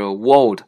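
"world" said as "wold", losing the r; mispronunciation demo. Shown as a demonstration. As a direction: leave the r out of "world". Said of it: "这个都不对".

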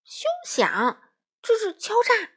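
high, loud outraged cry; angry shout. A narrator's reading. Crow refusing to pay the wolf, angry shout. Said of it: "花袜子气呼呼地喊道".

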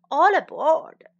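a cheerful ferryman calling loudly. Shown as a demonstration. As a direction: shout it to the passengers. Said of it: "teacher calls the phrase".

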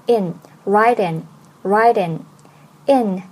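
very slow, each link drawn out; slow linking demo. Shown as a demonstration. Teacher slowly demonstrating linking to learners. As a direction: stretch the linked words slowly for students. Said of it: "这里有两个连读".

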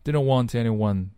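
"want anyone" joined as "wan-tanyone"; linked t. Shown as a demonstration. Teacher linking t and anyone, linked pronunciation. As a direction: carry the t of "want" onto "anyone". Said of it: "t和anyone连读".

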